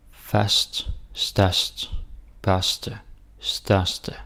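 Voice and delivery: "størst" and "største" with open Danish ø before r; teacher reading "Fast, størst, børste, største" as a demo; Danish word drill. Shown as a demonstration. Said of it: "here we got Ø S T".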